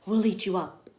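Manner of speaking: mild begging; pleading monsters. Acted. Wild things pleading with Max, mildly voiced. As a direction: beg him to stay. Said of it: "the wild things cried".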